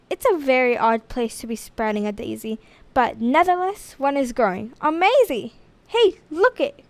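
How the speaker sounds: a hint of an eager boy, rising to an excited call; light kid voice that gets excited at the end; lightly voiced schoolboy. Einstein then Butch speak.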